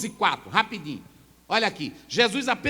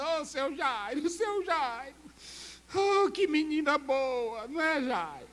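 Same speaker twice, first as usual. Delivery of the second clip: slow, higher, mock-pitying mourner voice; 5 semitones higher, 4 dB quieter, slower than usual. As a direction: imitate fake consolers sighing. Mourners imitated consoling Jairo.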